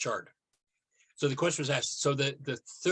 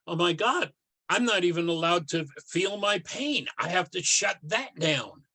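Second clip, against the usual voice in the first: raised, louder voice of a distressed thought; mild mock alarm; 4 semitones higher, 5 dB louder than usual. Child realizing pain is forbidden, mildly alarmed. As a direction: act out a child's dawning alarm, lightly.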